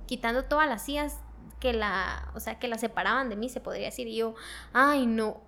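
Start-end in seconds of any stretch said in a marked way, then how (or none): 4.7-5.4 retold dismay. Retells dread as pastor approaches.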